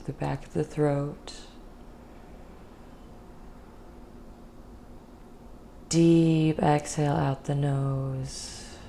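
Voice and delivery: calm guided meditation voice with long pauses. Real, not acted.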